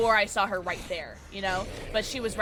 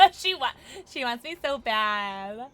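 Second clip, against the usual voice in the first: laughing. Real, not acted. Laughing at game enemy.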